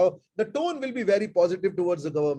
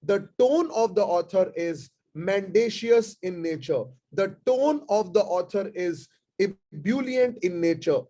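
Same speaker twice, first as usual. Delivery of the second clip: slow, measured reading of each example sentence; slow dictation; slower than usual. Acted. Teacher dictating tone examples to online students, slow and measured. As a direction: read them out slowly so students can note them down.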